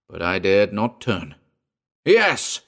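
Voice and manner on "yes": high, loud cry. A narrator's reading. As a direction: burst out in recognition. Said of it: "Hayward cried".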